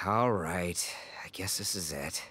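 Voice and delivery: low whispered resignation; whispered goodbye before leaving; resigned whisper. Acted. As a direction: breathe it out, defeated. Boss reluctantly accepting departure.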